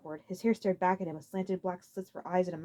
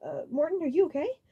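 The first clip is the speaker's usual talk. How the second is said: cautious Iggy voice; 10 semitones higher than usual. A narrator's reading.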